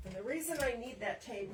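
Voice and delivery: calling out from across the room, far from the mic; yelling across the room. Real, not acted. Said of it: "now I'm yelling across the room".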